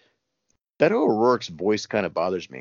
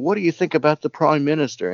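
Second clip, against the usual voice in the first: mimicking a reporter's question; 7 semitones higher, 4 dB louder than usual. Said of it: "somebody asks him".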